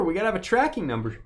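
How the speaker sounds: talking through hiccups; catching a hiccup mid-sentence. Real, not acted. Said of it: "I got the hiccups".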